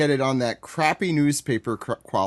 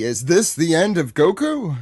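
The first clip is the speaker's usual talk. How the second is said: slow, dramatic cliffhanger narration; dramatic anime narrator; 4 semitones higher, 4 dB louder than usual. Acted. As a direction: tease the next episode like a TV narrator. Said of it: "like the narrator at the end of episodes".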